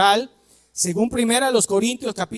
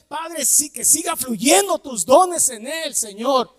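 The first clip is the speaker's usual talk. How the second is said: model prayer; 5 semitones higher, slower than usual. Shown as a demonstration. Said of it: "la próxima vez que oremos".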